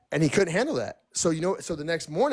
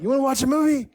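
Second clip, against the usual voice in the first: much higher, pushy mock voice; imitating him; 10 semitones higher, 4 dB louder, faster than usual. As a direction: call her down like a needy boyfriend. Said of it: "And he was like".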